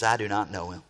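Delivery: a drop to a low, soft voice on "I do not know him"; low quiet denial. Acted. Pastor repeats Peter's denial to the congregation, low and hushed. Peter simply denies Jesus.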